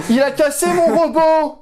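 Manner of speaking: mock whining. Mock wailing over lost robot.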